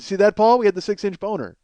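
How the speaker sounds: a light imitation of a dry late-night host; David Letterman delivery. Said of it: "he goes".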